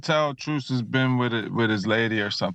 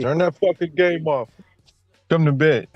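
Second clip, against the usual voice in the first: higher-pitched imitation of a nagging wife; wife's nagging order; 5 semitones higher than usual. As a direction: mimic her calling him to bed. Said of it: "She said".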